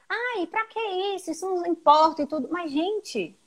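high, whiny, dismissive voice; whiny mock student. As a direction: mimic a bored student brushing it off. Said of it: "e o pessoal".

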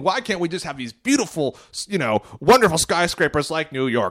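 put-on a light old-timey mid-century American accent. Quoting people of that era, in a light mid-century accent. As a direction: lightly put on, like a newsreel-era New Yorker. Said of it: "That's a good mid-century accent".

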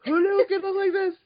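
very high, fast squealing fan voice; gobsmacked. Pretend. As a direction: shriek it like a starstruck fangirl. Mock fan squealing over outfit.

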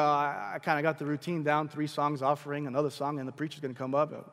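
low, listless listing; mock churchgoer's boredom. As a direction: reel off a routine known by heart. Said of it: "you're bored".

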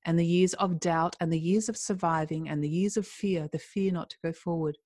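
steady, earnest storybook reading; story narration. A narrator's reading. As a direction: read the chapter like an audiobook. Reads a story chapter aloud.

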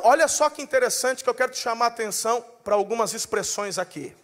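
ordinary talk, nothing marked

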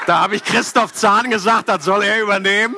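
lachend, höher und lauter; laughing. Real, not acted. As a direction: lacht beim Erzählen. Laughs at own holiday joke. (lachend gesprochen)

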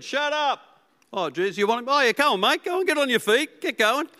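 high, brash mob turning on a dime; fickle mob. Acted. The fickle mob switches from silencing to hurrying the blind man, high and brash. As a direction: snap from hushing to eager cheering.

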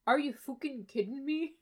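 "fucking" said as "fooking"; Irish-style fook. Acted. Co-host quotes the Irish hero swearing, "fucking" as "fooking". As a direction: give "fucking" an oo vowel, quoting the hero. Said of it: "it's fook".

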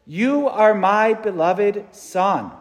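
slow, weighty voice from heaven; slow solemn quote. Shown as a demonstration. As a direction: lay each word down slowly. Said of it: "spoke from heaven".

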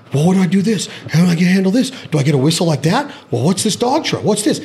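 mock Chase's eager dog questions; eager imitation. Host mimics Chase asking about his new dog, eagerly. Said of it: "I also don't talk like that".

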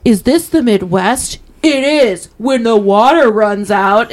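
slow, hammed-up theatrical pronouncement; mock self-righteous drama. Mocking movies that resemble the sketch, slow melodramatic reveal. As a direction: proclaim it like a shocking student play. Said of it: "that's what movies like this remind me of".

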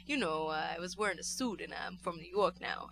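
lightly imitated fake New York accent; understated New York affectation; Joseph Gordon-Levitt. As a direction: mimic a casual put-on New York accent. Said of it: "in public, he'll be like".

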